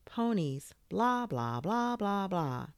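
singsong, stretched-out blahs; mocking a parent's endless lecture; droning on. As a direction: rattle off tedious excuses as blah-blah. Tedious list of parental reasons.

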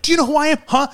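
very high, haughty mock challenge; indignant woman. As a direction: imitate a stranger pulling rank. Imitating entitled woman challenging dad.

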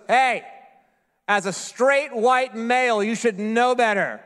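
lightly voiced kind gracious woman, slow and deliberate; a hint of sugary scolding; mock sweet voice. Airport clerk lecturing him as he walks away, mock sweet. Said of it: "This kind, sweet, gracious voice calls out".

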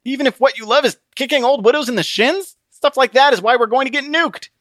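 high, pleading disbelief; Christian, incredulous. Acted. Christian arguing while being strangled. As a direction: argue from a choke-hold.

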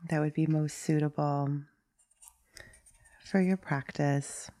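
unhurried meditation guide, long pauses between phrases; guided meditation. Acted. Meditation teacher inviting listeners to settle into a posture, guiding calmly. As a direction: gently lead listeners into stillness, leaving long silences.

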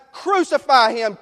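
loud, slow, high shouted demand; mob shout. Acted. Preacher voicing the mob, shouting it slowly and loudly. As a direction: hurl it at the crowd.

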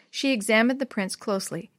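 usual speaking voice

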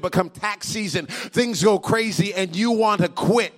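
loud, driving sermon push; preaching at full force. Acted. Preacher driving home a point to the congregation, loud and forceful. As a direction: build it up like a preacher.

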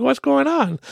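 high, slow, squeaky what-the-hell; stunned disbelief. Retold or imitated. Retelling a stranger yelling at a red light, high incredulous squeak. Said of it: "I'm like".

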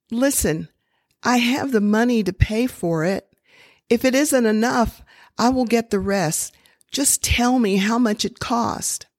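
put-on a small girl begging the pharmacist to sell her a miracle; little girl pleading.

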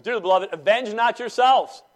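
loud, high King James delivery; reading scripture aloud. Retold or imitated. Pastor quoting Paul to the church, grandly. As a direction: proclaim it like old scripture. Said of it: "the Apostle Paul says".

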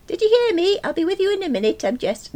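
high, insistent shout, quickening. A narrator's reading. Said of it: "so I shouted again".

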